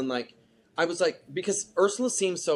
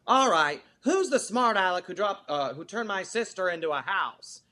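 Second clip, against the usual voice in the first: lightly voiced jokey witch, a bit higher; hint of a silly panto witch; mocking clownish witch; 5 semitones higher than usual. Mocking the stage version to the interviewer, mild clownish witch voice. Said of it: "She goes".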